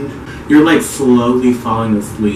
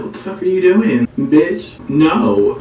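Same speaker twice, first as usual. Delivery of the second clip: higher-pitched alarmed protest at the nurse; panicked retort; 5 semitones higher, slower than usual. Retold or imitated. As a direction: snap back in a higher, startled voice. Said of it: "I pull away and I'm like".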